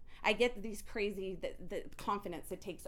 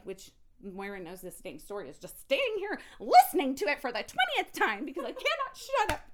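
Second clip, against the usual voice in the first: laughing; 6 semitones higher, 10 dB louder than usual. Real, not acted. Laughing at her own rambling.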